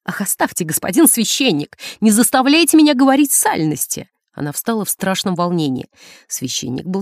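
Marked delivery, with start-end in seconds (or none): 0.1-4.1 ending much higher and louder; flustered, shrill protest; scandalized. Acted. Nun refuses the priest's questions, scandalized and loud.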